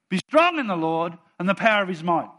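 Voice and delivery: loud, firm proclamation; bold declaration. Shown as a demonstration. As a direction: declare it with full assurance. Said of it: "when you say it like that".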